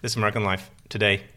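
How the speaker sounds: American radio host. Pretend. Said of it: "my really funny".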